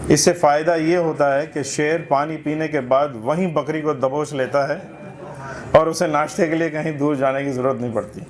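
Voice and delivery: measured literary reading aloud; humorous essay recitation. Acted. Reader presenting a satirical essay to a literary gathering, recitation. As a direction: read it out for a listening audience.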